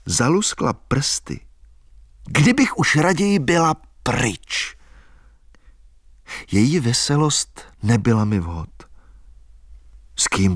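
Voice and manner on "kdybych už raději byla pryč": put-on higher, lilting young woman dreaming aloud; a wild country girl giddy about dancing; girl's voice full of plans; Albína's girlish voice. A narrator's reading. Albína eager to leave.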